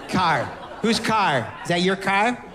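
put-on Chicago accent. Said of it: "talking about Chicago and California".

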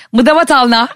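goodbye phrase said in reverse; backwards speech. Shown as a demonstration. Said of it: "tersten okurum".

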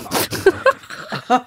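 airy chuckle. Real, not acted. Laughs at own text.

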